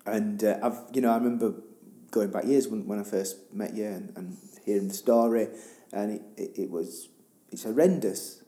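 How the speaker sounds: halting, broken-off words after crying; faltering, tearful admiration; choked up. Real, not acted. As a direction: struggle to get each word out. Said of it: "I've been crying".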